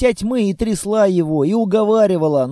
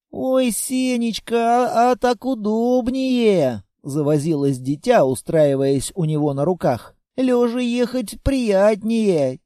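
put-on a small girl nodding off; sleepy little girl; 3 semitones higher than usual. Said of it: "стало разговаривать медленнее".

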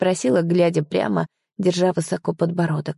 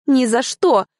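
high, louder scornful refusal; girl scoffing at her mother's hint, higher and louder; defiant snort; 7 semitones higher, 4 dB louder, slower than usual. Acted. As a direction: toss it off with a huff. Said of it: "фыркнула я".

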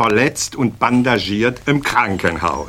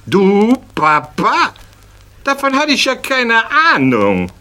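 astonished; 10 semitones higher than usual. Acted. Schäl amazed that his friend is a father, rising astonishment. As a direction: gape at the news, higher. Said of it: "Da staunt der Schäl".

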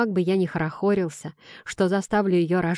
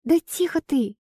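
higher, laughing as she shushes; laughing hush; 8 semitones higher than usual. Acted. Wife laughs while hushing her shouting husband. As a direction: shush him through laughter. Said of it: "покатывается со смеху Элька".

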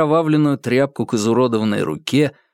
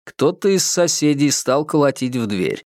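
normal talking voice

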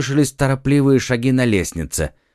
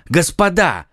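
higher urgent call to order; exclaiming; 8 semitones higher than usual. Acted. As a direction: cut the teasing short. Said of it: "воскликнул Д'Артаньян". (громкий призыв к порядку)

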